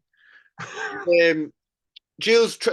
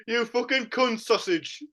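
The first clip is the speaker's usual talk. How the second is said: mock Shearer swearing. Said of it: "he talks like this".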